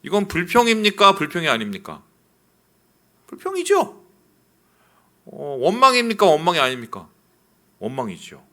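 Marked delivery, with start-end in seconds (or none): 3.3-4.0 emphatic. Real, not acted. Emphatic answer.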